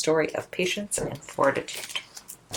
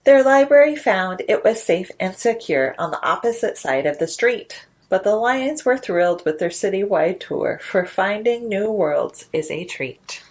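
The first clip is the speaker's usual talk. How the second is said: lilting, rhythmic storybook read; sing-song picture book narration; reading to children. A narrator's reading. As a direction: read it like a bedtime rhyme to little ones.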